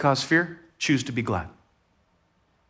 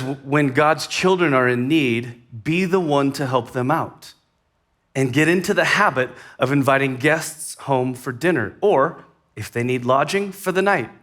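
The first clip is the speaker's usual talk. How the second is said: scripture reading. Acted. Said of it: "Let me read that again".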